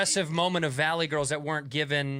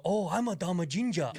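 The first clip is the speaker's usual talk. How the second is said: a put-on mock Asian accent on "Oh, I'm a dumb ginger". Shown as a demonstration. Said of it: "I can't go".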